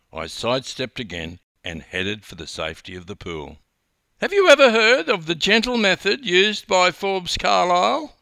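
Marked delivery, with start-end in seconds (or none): 4.2-8.0 very high, shrill, loud scream. A woman following the narrator toward the pool, screaming. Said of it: "she screamed".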